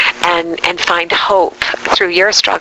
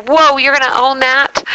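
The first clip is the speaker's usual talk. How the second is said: higher-pitched, mildly startled comeback; retold surprise; 7 semitones higher than usual. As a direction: play back your taken-aback reaction. Retold startled reply to God.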